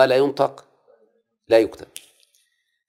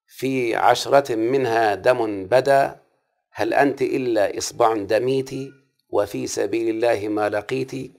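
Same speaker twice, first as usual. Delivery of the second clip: recited verse; slower than usual. Shown as a demonstration. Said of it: "قول النبي أحمد".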